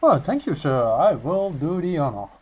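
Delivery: high, lightly posh thank-you; mock polite. Accepting the offer to drive the boat, mock polite. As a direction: ham up the gracious acceptance.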